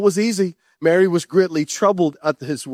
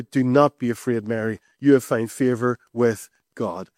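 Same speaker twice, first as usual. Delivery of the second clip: lower, tender voice of the angel; a low, kindly heavenly messenger; gentle angel; 7 semitones lower than usual. Acted.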